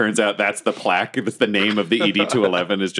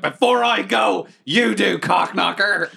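1 mock intercom taunt; 8 semitones higher, slower than usual. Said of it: "I'm like".

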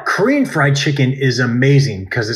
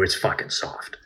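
whispered; 7 semitones lower, 12 dB quieter than usual. Real, not acted. Emphatic punchline aside.

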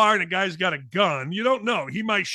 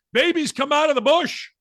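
a hint of a crazy man yelling, higher; mock crazy man yelling; 7 semitones higher than usual. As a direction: play the nutty guy on the slide, lightly. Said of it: "he's telling kids".

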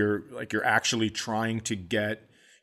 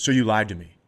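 angry dad; 3 semitones lower than usual. Retold or imitated. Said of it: "he goes".

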